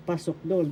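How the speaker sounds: "pasokdol" said pasokDOL; accent the last syllable "dol" of "pasokdol"; stress on third syllable. Shown as a demonstration. Teacher showing where the accent is, "pasokdol" stressed on "dol". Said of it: "The accent is in the third syllable".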